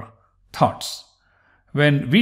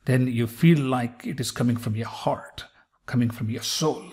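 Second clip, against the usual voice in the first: softer, lower, soulful delivery; hushed heartfelt tone; 3 semitones lower, 6 dB quieter than usual. Shown as a demonstration. Teacher urging spiritual connection, hushed and heartfelt. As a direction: let it sink gently from the heart.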